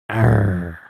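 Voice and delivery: "Arr" held on a long R; drawn-out R. Shown as a demonstration. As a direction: stretch the R in "Arr". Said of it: "you can't pronounce your R's".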